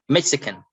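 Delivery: "Mexican" with MEX stressed, then falling; stress on first syllable. Shown as a demonstration. Teacher reading out the first column, first-syllable stress on "Mexican". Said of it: "so we stress on the first".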